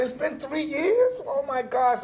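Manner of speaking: high and slowed, half laughing in disbelief; high, slow, retold disbelief; retold shock. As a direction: let it dawn on you slowly. Shocked at cousin's sobriety.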